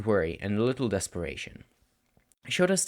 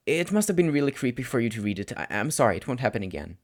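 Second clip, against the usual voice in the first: ashamed apology; 2 semitones higher than usual. Acted. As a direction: trail off in shame.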